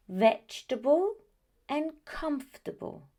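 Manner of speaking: vegetable as VEJ-tuh-bul and comfortable as KUMF-tuh-bul, the ending reduced; correct pronunciation repeated. Shown as a demonstration. Teacher repeating the model for students to copy. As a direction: repeat the short forms clearly. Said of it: "they are".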